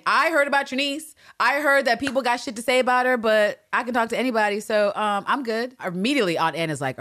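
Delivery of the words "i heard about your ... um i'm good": higher-pitched mock gossip; throwing shade. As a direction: needle them with exaggerated airy dismissal. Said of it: "it's shade saying".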